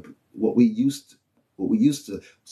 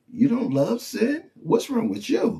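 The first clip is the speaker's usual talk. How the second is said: incredulous sinner; 11 semitones higher than usual. Retold or imitated. Preacher mimicking unbelievers' scorn, high and incredulous. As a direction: play a baffled sinner mocking the faithful. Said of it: "they think it's strange, like".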